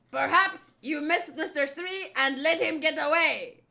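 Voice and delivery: lightly hammed-up villain in a huff; theatrical, indignant character voice; flamboyant villain role. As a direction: argue like a showy anime boss. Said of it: "the best I can do for, um, this voice".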